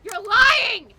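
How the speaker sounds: shouted high and loud in outrage; explosive, disbelieving shout; furious denial. Acted. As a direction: hurl it back at him, refusing to believe. Confronting the villain's claim.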